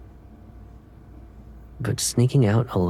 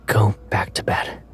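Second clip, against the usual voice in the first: sleepy whisper; whispered Caleb. Acted. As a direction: whisper like he just woke. Held whispered character voice.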